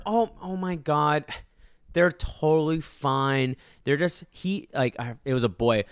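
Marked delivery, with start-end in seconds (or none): 0.0-4.2 mimicking the mom. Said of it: "the mom comes over".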